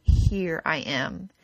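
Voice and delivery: low, slow calm reply; God answering a desperate cry for help; gentle divine answer. Acted. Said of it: "God will say".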